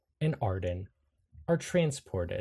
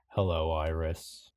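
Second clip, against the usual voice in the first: lower, slightly ominous voice in the mind; lightly voiced deep, rumbling presence; 4 semitones lower than usual. Eerie voice speaks to Iris in their mind, deep and rumbling. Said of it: "a deep rumbling voice say".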